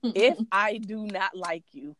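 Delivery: "do not" spaced out slowly; slow, deliberate weight on "do not"; emphatic restatement. Real, not acted. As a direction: spell out "do not" word by word.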